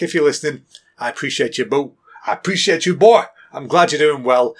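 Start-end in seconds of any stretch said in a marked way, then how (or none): 2.3-3.2 put-on louder and higher on boy; hearty shout. Shown as a demonstration. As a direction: cheer him on loudly. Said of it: "same words said twice".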